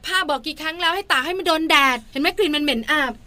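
acted naggy spouse finding fault; nagging. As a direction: rattle off household complaints. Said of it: "ขี้บ่น".

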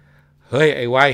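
put-on old warrior yelling, calling his son out; furious shout. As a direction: bellow a challenge at the house. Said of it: "ร้องตะโกนบอกว่า".

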